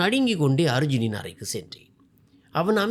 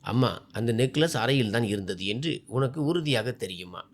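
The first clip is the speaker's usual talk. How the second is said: very calm; 4 semitones lower than usual. Acted. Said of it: "மிகவும் அமைதியாக கூறினார்". (மிகவும் அமைதியான குரல்)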